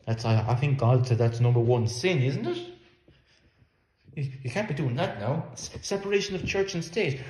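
mock outrage. Preacher mocks complaint about government.

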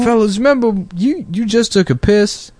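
Steve Harvey impression. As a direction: repeat the bit drawling it. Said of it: "He stumbles on that joke too".

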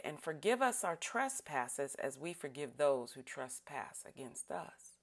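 solemn, measured group prayer; prayer recitation. Acted. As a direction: lead the congregation through the prayer.

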